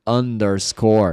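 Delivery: underscore said slowly; slow model word. Shown as a demonstration. Teacher slowly giving the English word. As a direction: stretch out underscore. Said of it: "se diz underscore".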